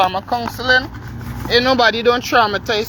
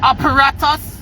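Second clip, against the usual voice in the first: incredulous; 4 semitones higher than usual. Real, not acted. Indignant challenge to diver's excuse.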